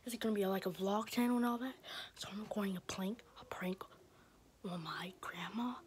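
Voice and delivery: hushed whisper to camera. Real, not acted. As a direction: whisper so grandma won't hear. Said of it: "whispered intro while hiding prank".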